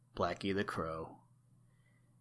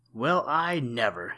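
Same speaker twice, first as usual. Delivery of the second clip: a slow, louder "well, I never" in mild surprise; mild exclamation; 3 semitones higher, 5 dB louder than usual. Acted. Blacky the crow startled by his feathers, mild exclamation. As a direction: gently exclaim it, caught off guard. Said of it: "he exclaimed".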